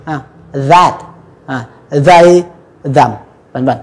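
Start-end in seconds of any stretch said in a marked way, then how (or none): 0.7-0.9 "that" with a buzzing TH; voiced TH. Shown as a demonstration. Teacher giving a vibrating example, voiced TH. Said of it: "các bạn rung lên". 2.1-3.1 "they, them" with buzzing TH; voiced TH. Shown as a demonstration. Teacher giving vibrating examples, voiced TH. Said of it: "các bạn rung lên".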